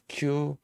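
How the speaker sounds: cucumber slowly in separate parts, ending without R; syllable-by-syllable cucumber. Shown as a demonstration. Teacher building the word from its letters, slow split cucumber. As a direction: break cucumber into cu, cum, ber. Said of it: "했는데 미국식은 R 이 발음을".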